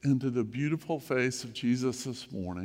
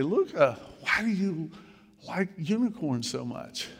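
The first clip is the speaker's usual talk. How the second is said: put-on asking a child; 6 semitones higher than usual. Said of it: "I say".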